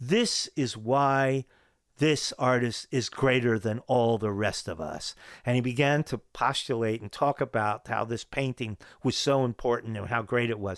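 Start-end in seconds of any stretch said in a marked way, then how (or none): 0.0-5.2 mock, slow, declaiming proclamation. Retelling a declaration made to a room at the show: big booming voice. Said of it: "in a big booming voice".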